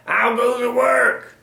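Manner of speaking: high, loud, drawn-out farmer's call. A narrator's reading. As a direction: call out slowly as the lazy farmer. Farmer's repeated call in story.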